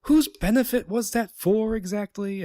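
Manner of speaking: put-on a rough stab at a British accent. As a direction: toss off a quick British accent, half-hearted. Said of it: "I kinda tried to do a British accent".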